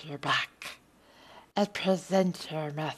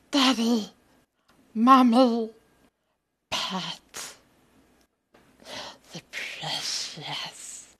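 a lightly voiced hissing cave creature, mostly in own voice; mock creature voice, barely changed from own; creepy creature voice. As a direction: play a wheedling cave creature, half-hearted. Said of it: "the accent challenge".

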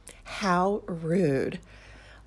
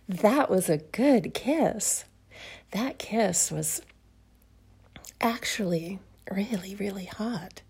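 dreamy whisper. Acted. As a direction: whisper it, dazed. Swooning over the kiss.

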